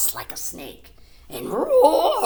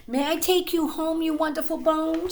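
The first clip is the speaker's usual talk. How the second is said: put-on raised girlish voice; sweet and eager, pitched up; Pearl's voice; 9 semitones higher than usual. A narrator's reading. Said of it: "said Pearl".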